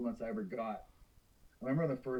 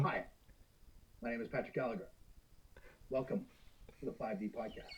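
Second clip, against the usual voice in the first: dubbed kung fu movie; 2 semitones lower, 9 dB quieter than usual. Shown as a demonstration. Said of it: "I can do a dub kung fu movie".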